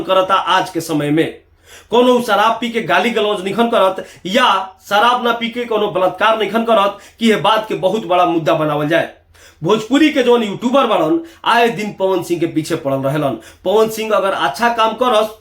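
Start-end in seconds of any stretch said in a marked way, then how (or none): none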